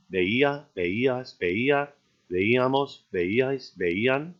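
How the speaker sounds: veía, veías, veíamos, each leaning on the í; ve-EE-a, ve-EE-as, with rising list tune; stress on the I. Shown as a demonstration. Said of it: "notice that same kind of stress".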